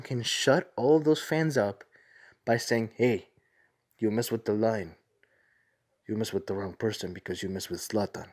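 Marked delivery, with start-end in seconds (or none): 2.9-8.3 a bad Zlatan accent, getting lower and softer; lightly done, poor imitation of Zlatan's accent; Zlatan Ibrahimovic accent. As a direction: attempt Zlatan's accent, badly, dropping into a low, quiet voice. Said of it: "That's my worst Zlatan Ibrahimovic accent ever".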